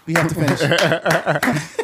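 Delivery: slow giggling plea; laughing, slowed. Shown as a demonstration. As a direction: laugh it out slowly. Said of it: "repeat of phrase".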